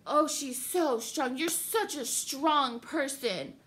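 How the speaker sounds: slow, drawn-out sarcastic gushing; exaggerated fake praise; mock admiration. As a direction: gush mockingly over her strength. Mimicking admiring comments with contempt.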